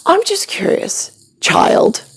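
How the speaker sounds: a mother mocking her son; mock sweet condescension. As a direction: talk down to him like a small child. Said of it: "And I'm like".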